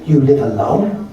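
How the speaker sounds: slow, sing-song Japanese cashier; Japanese accent. Retold or imitated. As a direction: play a polite Japanese cashier, slowly. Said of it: "and says".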